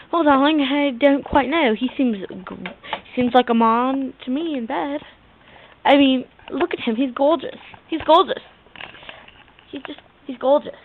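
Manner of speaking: hammed-up British "darling" voice; British-accented character voice; put-on British accent. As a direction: play a British diva with an accent. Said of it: "I have an accent".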